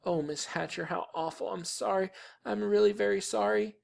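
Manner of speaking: high, soft, tearful apology; crying. A narrator's reading. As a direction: apologise in a small, whimpering girl's voice. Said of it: "Sheila cried".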